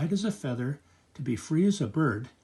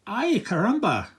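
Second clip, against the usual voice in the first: louder, higher startled cry from grandpa; 6 semitones higher, 5 dB louder than usual. Acted. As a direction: grandpa jolted by a leaping cat. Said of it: "cried his grandfather".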